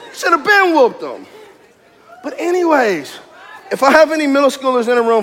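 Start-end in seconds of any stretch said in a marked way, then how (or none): 0.1-1.3 laughing. Real, not acted. Laughs repeating the line.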